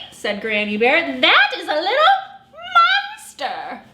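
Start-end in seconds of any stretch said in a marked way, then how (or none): 1.2-3.8 high, amused exclaim; laughing reveal. Acted. Granny Bear's reveal.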